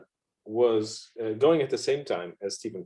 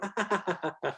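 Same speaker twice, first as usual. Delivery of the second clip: high, soft put-on chuckle; fake encouraging laugh; 8 semitones higher, 7 dB quieter than usual. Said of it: "and you go".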